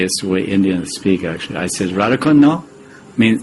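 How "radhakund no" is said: light Indian English question lilt. Retold or imitated. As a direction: ask it the Indian way, rising on no. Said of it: "in an Indian way".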